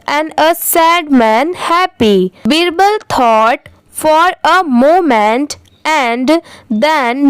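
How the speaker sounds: very slow, clear reading with pauses; careful, slow storytelling read; model reading aloud. Shown as a demonstration. Reads the story paragraph.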